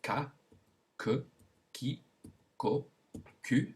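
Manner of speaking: ka, ke, ki, ko, ku as separate French syllables, each with a hard k; k sound drill. Shown as a demonstration. Teacher shows learners the k with five vowels, k sound drill. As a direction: sound out ka, ke, ki, ko, ku one at a time with pauses. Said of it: "Let's begin with the k sound".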